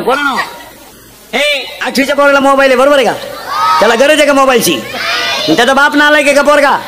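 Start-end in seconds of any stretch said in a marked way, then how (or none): 1.4-6.8 rousing shouted questions. Real, not acted. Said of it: "मोठ्याल्या पोराने बोलायचं नाही".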